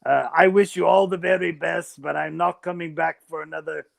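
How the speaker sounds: hammed-up Australian Jesus; Australian accent. Jesus recalling welcoming Steve Irwin to heaven, Australian accent. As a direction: put on a loose Australian accent. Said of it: "I can do an Australian accent too".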